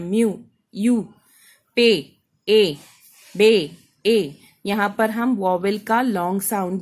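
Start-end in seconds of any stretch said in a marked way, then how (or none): 0.0-1.1 म्यू then यू, the long U drawn out slowly; long vowel sound. Shown as a demonstration. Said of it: "long sound है". 1.8-2.8 पे then ए, stretched very slowly and louder; long vowel sound. Shown as a demonstration. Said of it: "long sound है". 3.4-4.3 बे then ए, long vowel stressed louder; long vowel sound. Shown as a demonstration. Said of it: "long sound है".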